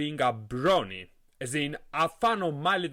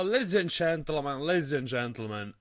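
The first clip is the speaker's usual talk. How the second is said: lightly attempted host impression; half-hearted show-opener in another man's voice; Total Biscuit. Podcast host opens the show imitating a YouTuber, lightly put on. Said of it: "my Total Biscuit impression".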